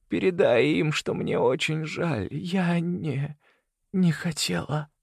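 high, slow, fragile woman's plea; a dying mother begging for her children; dying woman, pleading. A narrator's reading. Celeste pleading with Leo, high and slow.

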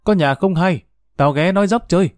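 calling out. Retold or imitated. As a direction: call out to the house, light and high. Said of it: "bà kêu bà ngoại".

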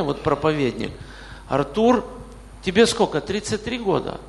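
ordinary talk, nothing marked

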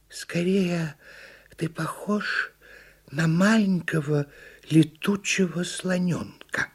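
unhurried storybook turtle; turtle character. A narrator's reading. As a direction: voice a careful little turtle, pausing between phrases. Turtle figure speaks.

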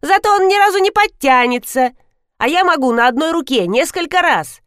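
высоко и громко, хвастливо; похвастайся задиристо; хвастливая девочка. A narrator's reading. (девочка задиристо хвастается перед братом, громко)

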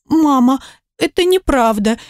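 put-on a small girl pleading through mild tears; sobbing child. A narrator's reading. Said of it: "всхлипнула она".

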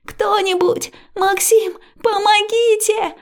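high, loud, slow cries for help; panicked shouting. A narrator's reading. Liya tied to the bed screaming for help, panicked. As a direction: scream for anyone to come. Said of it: "кричу я и панически осматриваюсь".

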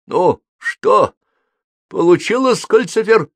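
высоко и громко, с кашлем; прокашляй вопрос; сквозь кашель. A narrator's reading. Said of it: "прокашлял Холл". (хрипло прокашлять)

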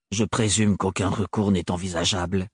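low, rigid, clipped restraint; extreme stiffness. Acted. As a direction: force the words out stiffly. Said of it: "avec une extrême raideur".

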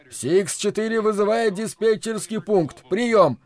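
high pilot voice calling the tower; pilot radio call. Acted. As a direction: repeat the call over the radio. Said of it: "а вот и голос Хопа".

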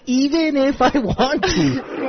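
slow, teasing replay of her words; mocking quote. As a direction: read her words back slowly, laughing. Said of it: "You said it twice".

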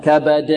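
كبد with a firm echoing bounce on د; clear, strong qalqalah. Shown as a demonstration. Teacher shows how it's done, strong qalqalah. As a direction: bounce the final د of كبد hard and cleanly. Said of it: "هكذا قلقلة واضحة قوية".

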